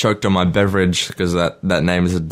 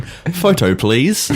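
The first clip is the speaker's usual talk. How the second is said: high-pitched little request; quoted email plea; 6 semitones higher, much slower than usual. Acted. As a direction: pipe up high, then drop on the please. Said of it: "an email saying".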